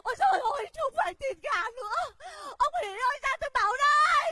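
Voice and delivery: high urgent calling; high excited shout. Acted. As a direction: hurry him with shouts. Wife shouts urgent news.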